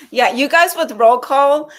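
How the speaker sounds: laughing. Real, not acted. Laughing after thanks.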